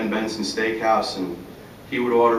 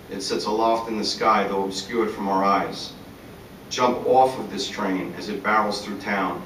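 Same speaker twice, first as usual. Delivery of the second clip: rhythmic recital of rhymed lines; poem reading. Acted. Poet reading his Friday afternoon observation, measured rhythmic recital. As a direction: recite in steady verse rhythm, landing on each rhyme. Reads own poem aloud.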